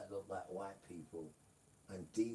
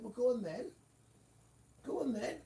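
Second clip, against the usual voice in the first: high, raised dare; Father daring them; 13 semitones higher, 6 dB louder than usual. Retold or imitated. Father telling Adam and Eve to go on, high and scornful. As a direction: toss it off like a fed-up father.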